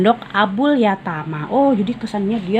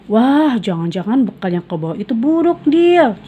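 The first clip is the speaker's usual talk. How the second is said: grumbling tease; 4 semitones higher, 4 dB louder than usual. Acted. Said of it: "cerutuk Raihan".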